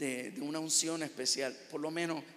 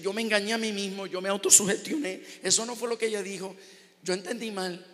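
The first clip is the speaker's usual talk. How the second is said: emotional; 4 semitones higher, 7 dB louder than usual. Real, not acted. Still emotional retelling.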